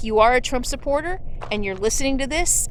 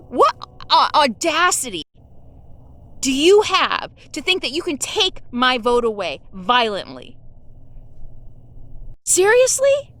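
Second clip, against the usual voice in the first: indignant, incredulous challenge; real angry disbelief; outraged disbelief; 3 semitones higher than usual. Real, not acted. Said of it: "Yes, I'm angry".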